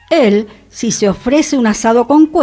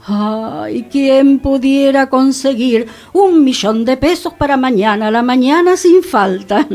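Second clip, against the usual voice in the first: wistful longing. Acted. Wistful aside, wishing for easy money.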